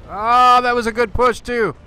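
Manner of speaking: loud, high Scottish cheer; Scottish accent. Pretend. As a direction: whoop it out in a Scottish brogue as if the push paid off. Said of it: "my Scottish accent".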